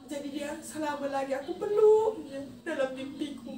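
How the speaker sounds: real crying remembering the hug. Real, not acted. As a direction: let the sob come through. Hugging father in dream.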